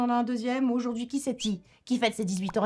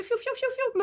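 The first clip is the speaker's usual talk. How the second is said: souffle aigu. Pretend. Mimics shielding herself with sounds.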